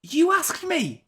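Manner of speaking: high, drawn-out protest; mock indignation. Real, not acted. Co-host blamed for the tangent, mock indignant. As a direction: throw the blame back in high-pitched indignation. Defending himself in mock quarrel.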